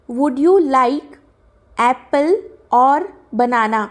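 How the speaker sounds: slow, deliberate read of "would you like apple or banana" without the article. Shown as a demonstration. Teacher reads the question without its article, slow and deliberate. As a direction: read the gap sentence slowly, word by word. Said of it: "एप्पल के लिए क्या आएगा?".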